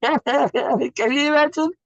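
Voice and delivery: very high and slow through laughter; laughing disbelief. Real, not acted. Teacher repeating it, laughing at the absurd lawn. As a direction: let the laugh carry the question.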